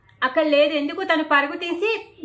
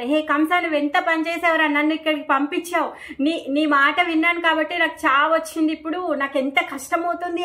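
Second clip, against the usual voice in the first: mock anguished cry; 3 semitones higher than usual. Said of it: "తను గట్టి గట్టిగా అరుస్తుందంట".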